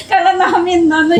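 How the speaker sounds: crying and laughing in relief; high, teary words through a laugh; real tearful voice. Real, not acted. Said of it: "ba't iiyak-iyak kayo".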